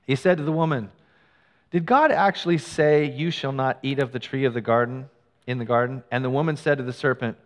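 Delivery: steady, measured reading of the serpent's question; scripture reading. Acted. Preacher reading the serpent's words to the church, measured. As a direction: read the scripture aloud to the congregation.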